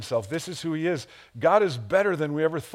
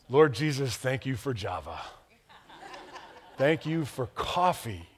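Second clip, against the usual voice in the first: laughing thanks; 3 dB quieter than usual. Acted. Thanking God for coffee.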